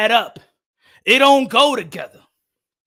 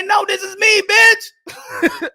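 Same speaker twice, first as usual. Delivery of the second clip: defiant retort; 8 semitones higher, slower than usual. Retold or imitated. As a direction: fire it back at the teacher. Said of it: "I said".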